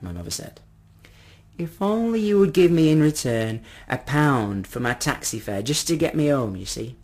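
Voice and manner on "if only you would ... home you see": put-on pleading old man. Old man asking for taxi fare, pleading. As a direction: make a polite, hopeful plea.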